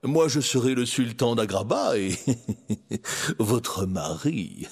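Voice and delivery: gloat, breaking into a chuckle; slow, drawn-out ending after a villain's chuckle. Acted. Jafar dreams aloud of being sultan and husband, gloating.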